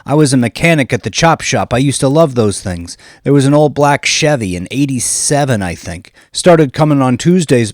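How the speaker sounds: high, loud eager big guy; eager Bobby. A narrator's reading. Bouncer telling Johnny about the van, high and loud. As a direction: spill it all out eagerly.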